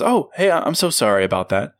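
high, overly polite apology; sugary people-pleasing service tone; customer service voice. Retold or imitated. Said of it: "That's the customer service voice that says".

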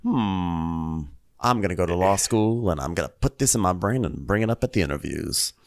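lightly imitated low musing; Sutton. Sutton privately plotting law school, lightly mimicked low musing. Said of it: "Sutton's face going".

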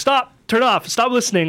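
high-pitched mock yelled commands; retold yell. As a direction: re-enact frantic yelling at the console, without much volume. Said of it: "I'm yelling at it".

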